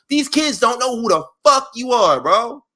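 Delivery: high, disbelieving scoff; incredulous. Real, not acted. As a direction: scoff at how unknown he is. Incredulous retort to Goldberg.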